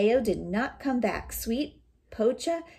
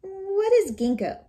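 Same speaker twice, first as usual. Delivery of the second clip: wolf asking; 11 semitones higher, 5 dB louder than usual. Acted. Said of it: "the wolf asked".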